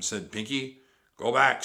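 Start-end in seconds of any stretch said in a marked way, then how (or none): 1.2-1.6 loud, raised parrot voice; mild parrot squawk; parrot call. A narrator's reading. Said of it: "said Polly".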